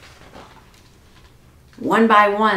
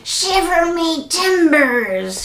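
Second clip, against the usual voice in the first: 1 mild mock shout; 8 semitones higher, slower than usual. A narrator's reading. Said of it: "shouted Pete".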